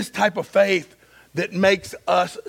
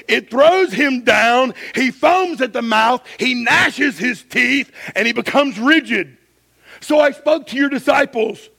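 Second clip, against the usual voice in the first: raised, driving sermon delivery; higher-pitched, emphatic pulpit reading; preaching; 6 semitones higher, 5 dB louder than usual. A narrator's reading. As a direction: read scripture with preaching force. Preaches at full force.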